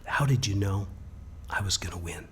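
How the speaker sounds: put-on the boy quietly asking his teacher in front of the cameras; hushed question. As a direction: hold the room in a whisper.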